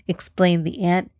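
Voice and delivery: plain reading voice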